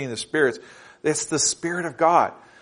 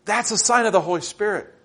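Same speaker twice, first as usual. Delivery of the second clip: earnest sermon with raised pitch; preacher urging the congregation; impassioned preaching; 5 semitones higher than usual. Real, not acted. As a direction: build conviction, lifting the key words high. Preaches climax of the point.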